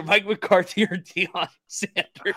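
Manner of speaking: slow, stretched-out announcer delivery; game-show announcer. Pretend. Host offers Cowboys coach options, drawn-out announcer voice. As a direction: draw out each name for a big reveal.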